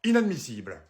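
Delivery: raising the voice at reception, slowed on key words; angry hotel guest. Acted. Guest makes a scene.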